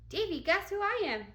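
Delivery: loud, high hopeful call; girl yelling to Davy in her mask; eager yell. A narrator's reading. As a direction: shout it hoping to be known. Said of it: "yelled Ramona".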